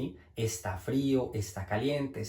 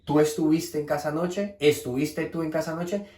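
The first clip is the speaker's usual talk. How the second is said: "tú estuviste en casa anoche" rising at anoche each time; question intonation; 3 semitones higher than usual. Shown as a demonstration. Teacher showing word order is free in Spanish, rising question intonation. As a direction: ask both word orders, lifting the end of "anoche". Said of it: "solamente la entonación".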